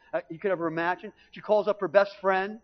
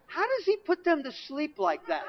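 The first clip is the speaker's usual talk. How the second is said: bewildered question; 9 semitones higher than usual. Retold or imitated. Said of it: "turn around to my dad and go".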